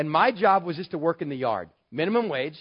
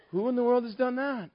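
shocked disbelief; 7 semitones higher than usual. Retold or imitated. Jim shocked at the wall.

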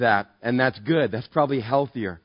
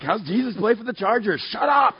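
higher, mock-exasperated comeback; irritated retort; 6 semitones higher than usual. Pastor to his inner voice during sports talk, mock irritation. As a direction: snap back at your own conscience, pitched up.

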